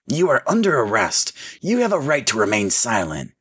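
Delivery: lightly acted police officer; arresting officer. A narrator's reading. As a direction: read the rights firmly.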